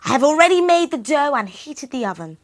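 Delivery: high, loud scheming witch voice; sly witch. Acted. The old witch tricks Gretel, loud high and sly. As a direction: sound sly and sweetly scheming.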